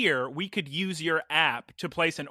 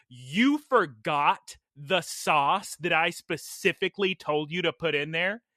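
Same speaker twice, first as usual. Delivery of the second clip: passive-aggressive; slower than usual. Retold or imitated. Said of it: "the most passive-aggressive woman".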